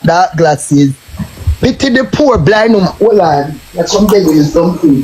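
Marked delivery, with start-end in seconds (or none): 1.6-5.0 lightly voiced mock blind beggar's plea. Mocking a rival as a blind beggar, mild beggar's whine. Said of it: "uno beg like all uno want is a bowl".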